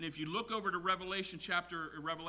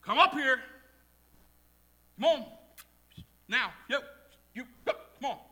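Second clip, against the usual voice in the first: loud, higher-pitched summons; loud voice from heaven; 7 semitones higher, 8 dB louder, faster than usual. Acted. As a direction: call down loudly from heaven. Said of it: "they heard a loud voice from heaven".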